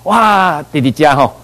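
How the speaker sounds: mild mock delight at a lucky find; delighted exclamation. Beggars find abandoned food, delighted exclamation. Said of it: "那些乞丐就好高兴".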